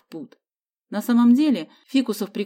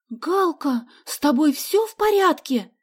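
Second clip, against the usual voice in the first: higher, excited cry of relief; two friends calling out together; exclaiming; 8 semitones higher, 4 dB louder, slower than usual. A narrator's reading. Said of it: "в один голос воскликнули". (взволнованно воскликнули, выше)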